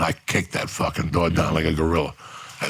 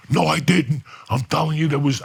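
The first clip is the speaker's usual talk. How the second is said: mock denial; 9 semitones higher than usual. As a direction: protest too much like a caught liar. Quoting Steve's defensive denial.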